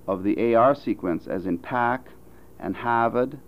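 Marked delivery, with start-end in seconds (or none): 1.6-3.4 r-less Boston "pahk" and "Hahvad"; Boston pronunciation. Shown as a demonstration. Phonetician illustrating vowel six, Boston accent. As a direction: say it with a Boston broad A, dropping the R. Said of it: "occurs in Boston pronunciations".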